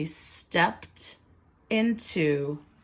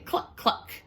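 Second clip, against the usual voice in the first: short clucks, like a hen; a teacher's chicken cluck. Shown as a demonstration. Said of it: "that is what a chicken says".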